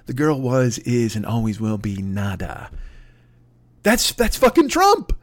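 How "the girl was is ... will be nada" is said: Spader's character. Retold or imitated. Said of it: "Remember Spader's character?".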